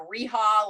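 "Reha" said as REE-ha; mispronounced name. Retold or imitated. Host quoting how people botched their name, mispronounced "Reha" with an h. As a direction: put an h for the n in "Reha". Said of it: "had trouble pronouncing my name".

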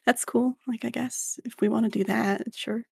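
chill stoner voice. Shown as a demonstration. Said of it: "a very slow and, like, calmer tonality".

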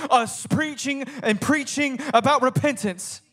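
rolling sermon cadence, steadily building; driving preaching. Acted. Preacher telling how God ordained John, mounting fervour.

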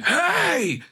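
sudden high, loud yelled hey; big man voice. Retold or imitated. Dad yelling at the child who hit his daughter, loud sharp shout. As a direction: bark it out to stop a kid cold. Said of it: "my big man voice came out".

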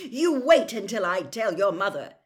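loud, high, angry threat; raging threat. A narrator's reading. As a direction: threaten your sons in a rage. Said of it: "raged Mister Weasley".

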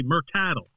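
put-on Mercadal with the accent moved onto a wrong syllable; mispronounced stress. Man mimicking people who mangle his surname, mispronounced stress. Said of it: "the accents on the E".

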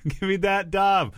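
high, slow squeaky echo; silly high voice. Acted. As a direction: squeak it back, drawn out slow. Repeats line in silly voice.

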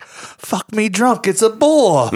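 high, drawn-out movie quote; slow, high mock amazement; imitated astonished farmer. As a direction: play the stunned farmer, stretching it out. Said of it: "he's like".

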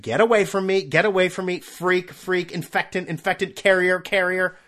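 hammed-up recoil, rattling off accusations; mock alarm. Shooing someone seen on the street, mock alarmed.

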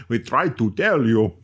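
slow, put-on Russian accent; mock Russian accent. Russians answering podcasters about spelling, mock Russian accent. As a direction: answer as an exasperated Russian, slowly.

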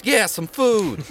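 high, slow echoing beg; begging urchin. Acted. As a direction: drag it out like a hungry kid. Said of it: "And Skunk goes".

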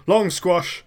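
a hint of a chirpy gnome; perky little gnome voice. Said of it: "is this your gnome voice?".

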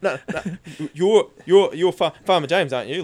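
a nervous cop, stuttering and tripping over "You're, you're, you're". Retold or imitated. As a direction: play the jittery cop who can't get his words out. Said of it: "fucking here stuttering".

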